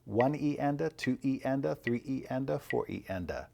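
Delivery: steady metronomic "E enda" after each number, dropping on "four"; even sixteenth-note count. Shown as a demonstration. Drum teacher showing how sixteenth notes sound, evenly counted. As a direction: count "One E enda" evenly, every syllable equally spaced. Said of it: "sixteenth notes sound like this".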